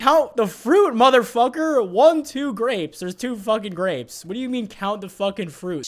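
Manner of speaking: high, loud and outraged; incredulous yelling. Retold or imitated. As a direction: shout it in disbelief. Outraged inner reaction to her line.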